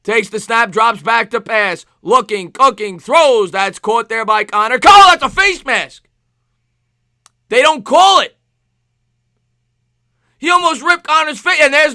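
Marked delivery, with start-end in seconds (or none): 4.8-11.9 loud, high protest at the refs; indignant play-by-play yell; excited outcry. Real, not acted. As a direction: call out the missed foul. Reacting to a missed penalty.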